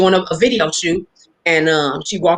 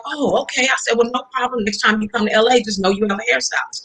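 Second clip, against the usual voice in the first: pitched up, trying to stay cool and polite; a starstruck teen keeping composure; nervous excitement; 4 semitones higher than usual. Retold or imitated. Teen on the phone with Prince, pitched-up nervous politeness.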